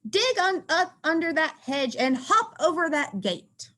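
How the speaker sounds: a hint of Marvin's squeak; lightly squeaky mouse giving orders. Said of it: "Marvin squeaks".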